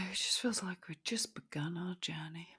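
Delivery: soft mock-wistful whisper. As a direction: breathe it out like a secret.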